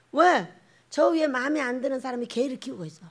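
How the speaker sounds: ordinary delivery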